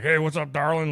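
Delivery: mock sweet-talking biker; drunk biker. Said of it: "shit-faced".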